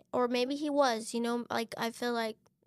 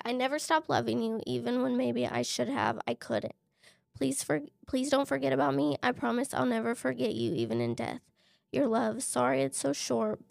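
holding back tears; 4 dB louder than usual. Real, not acted. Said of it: "I'm trying not to cry".

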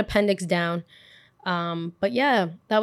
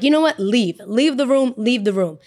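angry order; 3 semitones higher, 4 dB louder than usual. Retold or imitated. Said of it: "the teacher gets pissed off".

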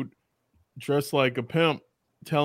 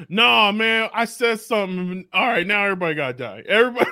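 petulant God; 3 semitones higher than usual. Retold or imitated. Voicing vengeful God comically.

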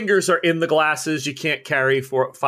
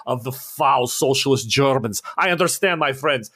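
disbelieving host. Acted. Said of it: "He's laughing like he doesn't believe".

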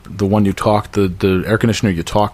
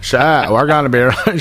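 put-on Glens Falls accent; 3 semitones higher than usual. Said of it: "shit, S H E T".

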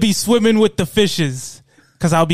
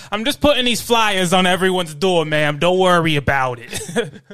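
mobster voice. Pretend. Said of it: "he's got a baseball bat".

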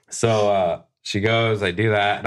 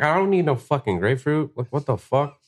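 higher-pitched retold protest; indignant refusal; 6 semitones higher than usual. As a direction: wave it off with mock indignation.

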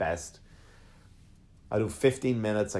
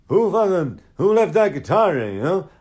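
a higher, louder mock angry yell; 7 semitones higher, 6 dB louder than usual. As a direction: bark it like a furious country star tripping backstage. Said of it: "a country singer yelling".

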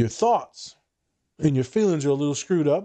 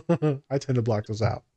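amused confession; 2 semitones lower than usual. Real, not acted. Laughs at own joke.

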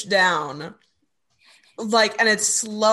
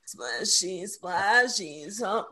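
cracked puberty voice; 2 semitones lower, 7 dB quieter, much slower than usual. Retold or imitated. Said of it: "in his puberty voice".

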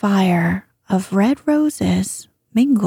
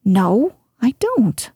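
offended tone; slower than usual. Acted. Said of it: "in an offended tone".

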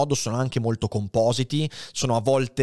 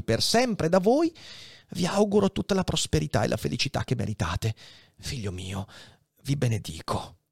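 tender blessing; 4 semitones higher than usual. Acted. Faria blesses Edmond as his son, tender. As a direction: bless him like a son, gently.

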